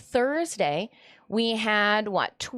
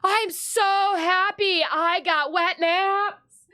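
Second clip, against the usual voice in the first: laughing; 6 semitones higher, 4 dB louder, slower than usual. Retold or imitated. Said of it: "I'm like".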